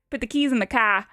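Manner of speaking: lightly put-on Boston accent. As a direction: say it like a Bostonian, dropped r in car. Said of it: "Where in Boston did you pick up that accent?".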